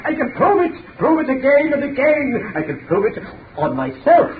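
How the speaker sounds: manic boasting. Acted. Mad boasting.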